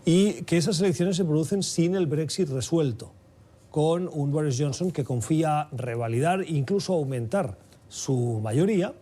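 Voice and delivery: measured news-anchor delivery, lifting key phrases; news read. Acted. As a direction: present the headline story to listeners, deliberately paced. Reads the news intro. (lectura de noticiero)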